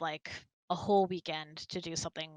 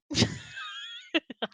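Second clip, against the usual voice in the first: a burst of airy, unvoiced laughter; breathy laugh; 11 semitones higher, 5 dB louder than usual. Real, not acted. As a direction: laugh at your own joke, breath only. Laughing at own joke.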